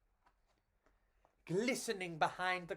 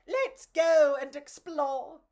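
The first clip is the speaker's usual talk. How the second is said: higher, louder, slow and eager; excited cockroach; 8 semitones higher, 7 dB louder than usual. Acted. Pedro eagerly urging his friend to explore. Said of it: "Pedro whooped".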